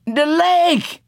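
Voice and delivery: high, breathless whisper of horror; amazed horror. A narrator's reading. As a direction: gasp it out, stunned and terrified. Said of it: "in amazed horror from Motorboat".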